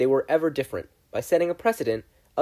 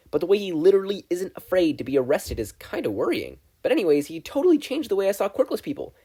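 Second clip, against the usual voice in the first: put-on much higher, bouncy teen voice; bubbly schoolgirl; 6 semitones higher, 4 dB louder than usual. A narrator's reading. Mina chimes in excitedly to the class, bubbly and high. Mina's voice held for many lines.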